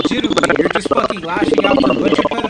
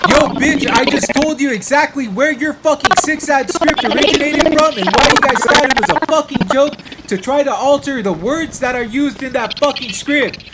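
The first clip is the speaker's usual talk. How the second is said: loud, raised angry rant; real anger, a bit higher and louder; angry yelling; 5 semitones higher, 3 dB louder than usual. Real, not acted. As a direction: keep hammering him, still heated. Still yelling at chat opponent.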